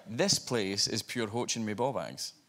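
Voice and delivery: slow, deliberate Scottish accent; Scottish phrase. Shown as a demonstration. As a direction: try out a Scottish phrase on a foreigner, slowly. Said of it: "I tried a Scottish phrase on her".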